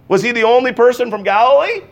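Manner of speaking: insistent rhetorical challenge. Shown as a demonstration. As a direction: push the question at the crowd. Repeated question, second louder.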